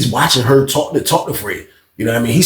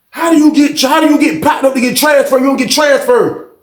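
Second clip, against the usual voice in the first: higher, louder mock complaint; retold complaint; 11 semitones higher, 3 dB louder than usual. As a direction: imitate an inmate griping about transfers. Inmate complaining to officer.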